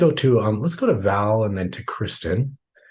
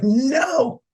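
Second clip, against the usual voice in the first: limbic no; 3 dB louder than usual. Retold or imitated. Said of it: "Your limbic system is like".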